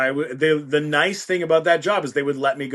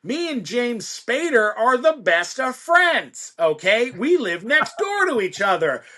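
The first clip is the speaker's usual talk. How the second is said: high, self-important producer bragging; Gustavo; 9 semitones higher than usual. Acted. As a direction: brag grandly with swooping, emphatic pitch. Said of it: "record producer with a giant ego".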